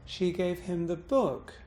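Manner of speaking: "book" jumps up at the end, then falls; stress on BOOK. Shown as a demonstration. Teacher shifting the meaning, bouncing on book. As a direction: save the bounce for the final "book". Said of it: "I bounced on book".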